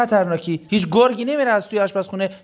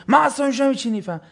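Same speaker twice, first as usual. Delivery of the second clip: mock husband; 6 semitones higher, faster than usual. Husband's excuse mimicked.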